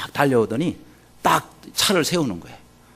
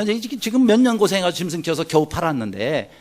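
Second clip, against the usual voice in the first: ordinary talk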